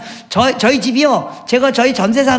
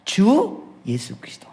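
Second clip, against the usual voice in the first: whispered; 3 semitones lower, 5 dB quieter, slower than usual. Acted. Whispered confession of Christ's name.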